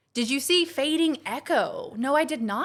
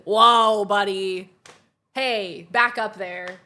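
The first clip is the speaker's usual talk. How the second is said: mock intimidated; 4 dB louder, much slower than usual. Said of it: "That's what they say".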